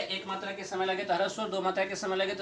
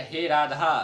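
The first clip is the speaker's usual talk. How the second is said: calling Radha from afar; 3 semitones lower, 4 dB louder, slower than usual. Shown as a demonstration. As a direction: call the name out to someone far away. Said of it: "थोड़ा जोर से उसको बुलाना पड़ेगा". (दूर से पुकारते हुए)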